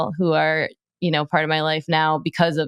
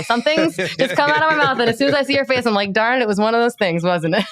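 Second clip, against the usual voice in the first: high, laughing self-mockery; real embarrassed laugh, higher; sheepish laugh; 7 semitones higher than usual. Real, not acted. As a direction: caught saying something silly. Embarrassed laugh at own remark.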